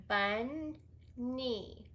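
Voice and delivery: bunny said slowly, split bun-ny; teacher chunking bunny; slow chunked word. Shown as a demonstration. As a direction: draw out bunny syllable by syllable. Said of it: "So the first one".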